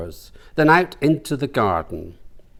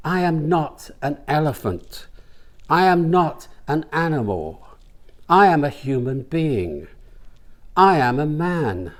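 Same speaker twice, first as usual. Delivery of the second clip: Elephant Man quote; 3 semitones higher than usual. Retold or imitated. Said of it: "reminded Brian of the movie The Elephant Man".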